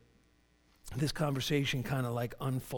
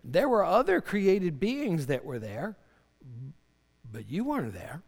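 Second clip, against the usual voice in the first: raised, emphatic rebuke of Job; lightly acted challenge, higher and louder; God; 4 semitones higher, 4 dB louder than usual. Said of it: "God's saying to, to Job".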